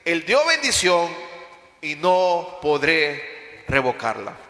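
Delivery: measured, solemn Bible reading; solemn reading of Balaam's oracle; scripture reading. Acted. Reads scripture aloud.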